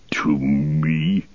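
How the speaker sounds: breathy, whispered incredulity; scornful disbelief. Acted. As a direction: hiss it back in disdain. Saruman scorns an offer of help.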